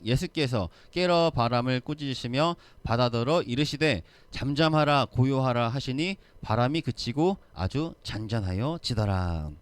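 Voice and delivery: reading the verse aloud, a touch firmer on the command; scripture reading. Shown as a demonstration. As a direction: lead the congregation through the verse. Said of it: "삼십구 절 시작". (성경 구절을 낭독하듯)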